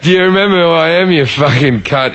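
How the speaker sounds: lightly hammed-up tough-guy jab at the captain; mock tough-guy taunt. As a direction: play it as Teddy Tough Nuts, half laughing. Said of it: "I'm Teddy Tough Nuts".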